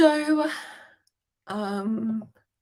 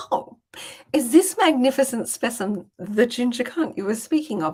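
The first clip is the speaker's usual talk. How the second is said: higher, playful feigned wonder; mock admiration; 5 semitones higher, 3 dB louder than usual. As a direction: act innocently impressed to tease dad. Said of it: "I'm like".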